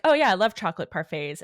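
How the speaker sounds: hurried, lightly acted reply; quick fibbing reply. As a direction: rattle it off quickly to cover a lie. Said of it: "just quickly is like".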